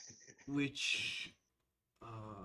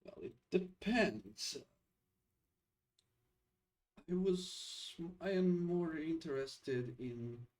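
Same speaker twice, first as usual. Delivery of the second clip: lightly voiced sly smirk; a touch of smug insinuation. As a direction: drop a sly hint, with pauses. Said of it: "he smirks and he says".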